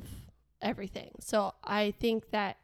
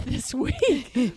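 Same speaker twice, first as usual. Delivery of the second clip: laughing; 2 semitones higher, 5 dB louder than usual. Retold or imitated. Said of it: "I was like".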